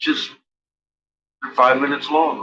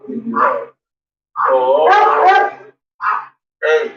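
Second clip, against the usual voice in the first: talking to a dog; 5 dB louder, much slower than usual. Real, not acted. Dog talk, high voice.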